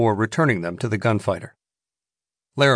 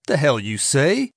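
snapped; 4 semitones higher than usual. Acted. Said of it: "Wilder snapped".

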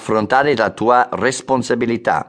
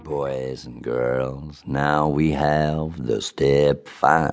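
put-on slow, low American accent; 7 semitones lower, 6 dB quieter, much slower than usual. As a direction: drawl it like an American. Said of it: "finalmente l'accento americano".

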